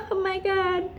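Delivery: pained, slow groaning words. Real, not acted. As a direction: get the words out through the sting. Still reeling from wax pull.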